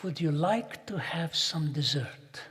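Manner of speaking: a slow, lightly voiced sweet waitress; hint of a sweet Russian waitress. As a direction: gently offer dessert, sweetly. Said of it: "she spoke in a sweet voice".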